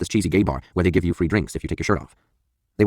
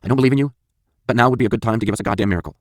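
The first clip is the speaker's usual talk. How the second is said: loud, higher desperate plea; crying out to God; 5 semitones higher, 4 dB louder than usual. Retold or imitated. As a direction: shout a prayer you don't believe in. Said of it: "I say aloud".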